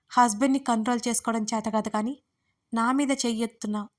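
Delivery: lightly mocking taunt; a touch of sneer in the retort; sarcastic. Rival taunting the wife who hit her, understated sarcasm. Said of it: "అంది వెటకారంగా".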